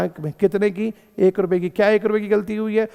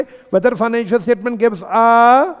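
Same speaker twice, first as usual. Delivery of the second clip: very slow, each word spaced out for notes; slow dictation; 4 semitones higher, much slower than usual. Shown as a demonstration. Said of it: "oblique करके लिख लो". (बहुत धीरे, लिखवाते हुए)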